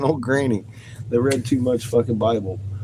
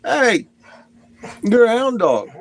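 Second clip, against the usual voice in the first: high pet-talk voice; 12 semitones higher, 4 dB louder than usual. Real, not acted. Teasing the dog again.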